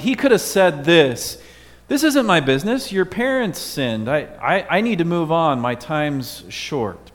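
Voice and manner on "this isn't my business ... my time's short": lightly voiced, brushing him off; a hint of an impatient teacher; mock busy and uninterested; dismissive Jesus. Imagined Jesus brushing off blind man.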